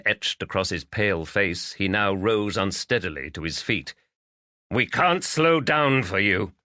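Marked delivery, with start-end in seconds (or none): 4.7-6.5 warning. Acted. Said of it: "Lavender warned".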